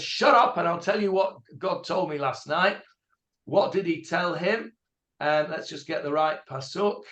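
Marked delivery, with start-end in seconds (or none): 0.0-2.8 a quick mock rebuke from the prophet; angry Samuel. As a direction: Samuel cutting off Saul, sharp mock anger. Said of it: "Shmuel says".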